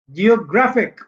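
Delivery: "जियोग्राफिक" with ग्रा stressed, फिक falling; stress on penultimate syllable. Shown as a demonstration. Teacher showing a longer IC word, penultimate syllable stressed. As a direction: lean on ग्रा inside "जियोग्राफिक". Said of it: "तो यहां से दूसरा ये है".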